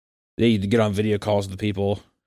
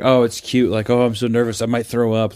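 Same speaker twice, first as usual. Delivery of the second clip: sarcastic. Retold or imitated. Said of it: "like, sarcastically".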